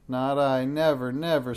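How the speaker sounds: loud witch denial; mild witch screech. Acted. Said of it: "screeched Madame Snickesnee".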